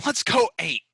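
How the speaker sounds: loud, hyped-up, escalating cheer; mock rallying cry.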